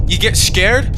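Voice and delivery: light Scottish accent, scared rolled; a quick Scottish take on You get scared?. Shown as a demonstration. Player shows the accent he slips into when scared, light Scottish.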